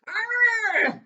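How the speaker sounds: sudden high yelp of fright; a sharp startled cry; shrieking jump scare; startled yell. Acted. Harry treads on uncle in dark.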